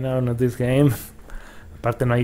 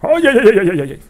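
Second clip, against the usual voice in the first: high squealing wizard ay ay ay, higher and louder; a silly cartoon wizard yelping, pitched up; salad wizard voice; 10 semitones higher, 9 dB louder than usual. Gamer mimics a goofy wizard's yelps, high and loud. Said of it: "La voz del mago de las ensaladas".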